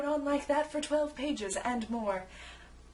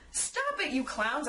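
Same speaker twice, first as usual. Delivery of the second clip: a light scolding yell at the brawlers; mild holler. Acted. Uncle Sam hollering at Lincoln and Washington, mock yell. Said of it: "I heard Uncle Sam holler".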